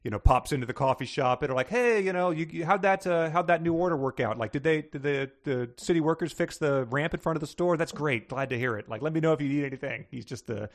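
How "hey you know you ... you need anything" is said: friendly councilman. Retold or imitated. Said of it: "town councilman who just".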